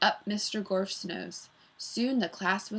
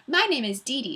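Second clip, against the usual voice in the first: small energetic voice; 5 semitones higher, 4 dB louder than usual. Acted. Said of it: "Her voice was small, but full of energy".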